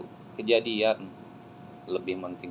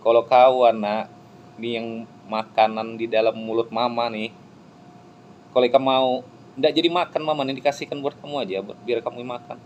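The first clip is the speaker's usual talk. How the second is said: urgent preaching; 7 dB louder than usual. Real, not acted. Preacher addressing child, urging.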